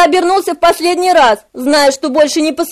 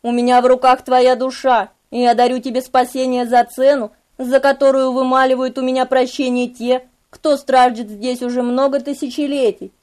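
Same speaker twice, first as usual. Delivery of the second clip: softer, measured demon's offer; a hint of a stern master; restrained, weighty reproach; lightly voiced Memnoch, grave; 3 semitones lower, 4 dB quieter than usual. Memnoch argues with Lestat.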